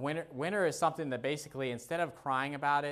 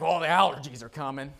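Debbie Downer whine; 2 semitones higher, 7 dB louder than usual. Pretend. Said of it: "be a Debbie Downer".

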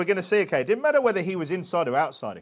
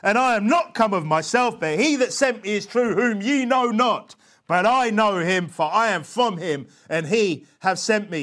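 slow, raised, declaiming scripture; shouting as he taught; 3 semitones higher, 4 dB louder than usual. Acted. Preacher voicing Jesus teaching in the temple, slow shouting. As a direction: proclaim each phrase forcefully to a temple crowd. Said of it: "And he's shouting".

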